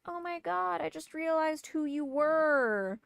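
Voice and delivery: high, slow, syrupy mock gasp; sing-song mockery of a fake-surprised neighbour. Mocking the neighbour's messages.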